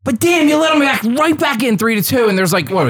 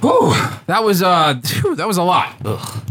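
out of breath; 3 semitones lower than usual. Real, not acted. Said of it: "I'm a little out of breath".

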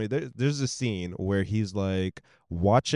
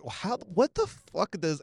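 disbelief; 8 semitones higher, much slower than usual. Retold or imitated. Disbelief at the bathtub scene.

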